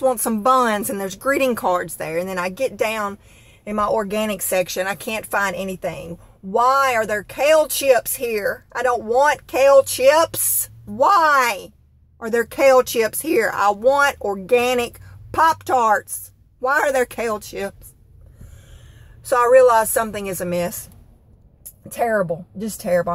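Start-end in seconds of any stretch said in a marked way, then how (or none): 6.4-17.9 slow, drawn-out disbelief; exasperated. Retold or imitated. Complaining to viewers about kale chips, slow exasperation. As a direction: lean into each question, fed up.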